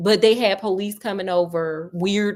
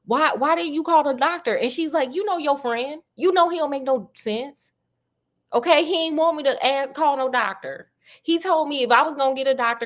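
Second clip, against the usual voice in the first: raised-voice characters; 6 semitones higher than usual. Acted. Watson and landlady voiced, high.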